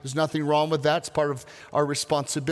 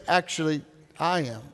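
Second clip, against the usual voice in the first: soft divine reply; 3 semitones lower, 4 dB quieter than usual. Pretend. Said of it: "God's, like, over here saying".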